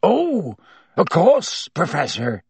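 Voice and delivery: high, overcome, relieved; weak with happiness. A narrator's reading. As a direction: answer faint with joy. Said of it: "who sounded weak with happiness".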